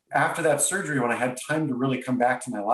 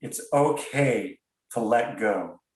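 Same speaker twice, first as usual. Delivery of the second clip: slow, gentle reassurance; a divine voice granting permission; knowing, loving; slower than usual. Retold or imitated. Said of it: "in a kind of a knowing".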